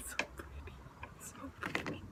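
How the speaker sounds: soft unvoiced whisper of delight; hushed so pretty; whispered awe. Real, not acted. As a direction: breathe it out in wonder. Whispered delight over cards.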